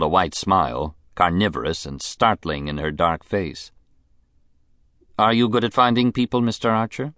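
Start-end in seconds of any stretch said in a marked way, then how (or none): 5.2-7.1 fast, high, probing question; probing rich lady. Acted. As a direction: press him, quickly and coyly. Mrs Sampson, quick probing.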